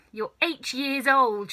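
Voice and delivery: snorting. Acted. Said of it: "she snorted".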